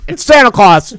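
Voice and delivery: high, loud mock Santa call; Santa at the door.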